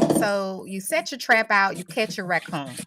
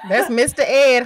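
laughing through the punchline; giggling as she names the horse; 3 semitones higher, 9 dB louder than usual. Real, not acted.

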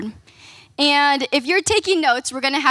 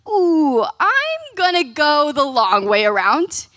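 mock reluctance; 2 semitones higher, much slower than usual. Jonah dodging God's call to Nineveh, playfully evasive. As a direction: stretch it out slowly as a cheeky excuse.

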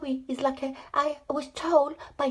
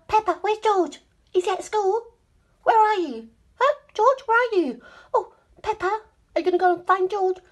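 playful questioning; 5 semitones higher, 5 dB louder, much faster than usual. Pretend. Pretend chat with toy Peppa.

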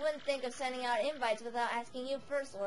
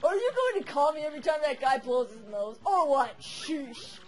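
loud, impatient monster king; grumpy brute king; 4 dB louder than usual. Acted. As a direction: bark it like a cranky villain. Bowser grumbles at servant.

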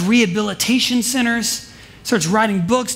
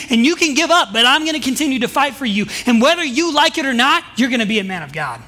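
rising, insistent declaration climbing higher; adamant; 4 semitones higher than usual. Retold or imitated. Pastor telling the youth on the phone he won't give up, adamant and building. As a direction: fight for him with every line, building higher. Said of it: "so, like, adamant".

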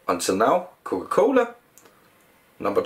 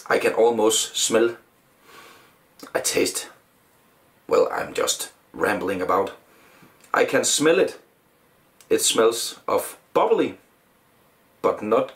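glass held under nose; sniffing drink while talking; speaking into a glass. Real, not acted. Seen 2: Masked speaker holds small glass at nose/mouth, sniffing, throughout the words.

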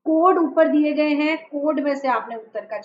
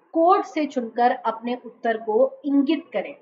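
deliberate, phrase-by-phrase read-aloud; slow careful reading. Real, not acted. Teacher reading the question for students, slow and careful. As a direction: read the instruction out slowly. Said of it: "बहुत धीरे धीरे पढ़ रही हूँ".

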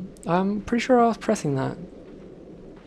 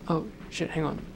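whispered; 8 dB quieter than usual. Real, not acted. Quiet reaction while playing.

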